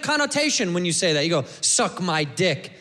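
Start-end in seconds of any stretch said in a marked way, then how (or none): 1.6-2.7 low, slow, nasty; negative. Shown as a demonstration. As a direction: spit it out low and mean. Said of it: "We say it negative".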